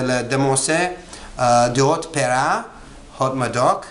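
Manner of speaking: wine name in a French accent. Shown as a demonstration. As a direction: say the label with French pronunciation. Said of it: "I'm using a French accent".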